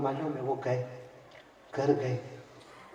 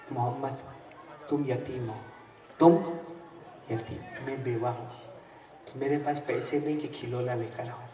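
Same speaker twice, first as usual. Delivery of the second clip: mother crying; 4 semitones lower, 9 dB quieter than usual. Acted. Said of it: "रोते रोते क्या कहती है".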